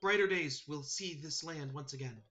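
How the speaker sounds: high, earnest bird voice; solemn sparrow messenger. Acted. Sparrow urging the last druid to take heart, solemn. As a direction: pass on a grave charge in a high voice.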